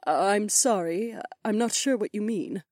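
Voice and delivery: high, hesitant priestess; confused. A narrator's reading. Priestess answers queen's barrier question, confused. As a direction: apologise in puzzlement. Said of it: "cocked her head to the side in confusion".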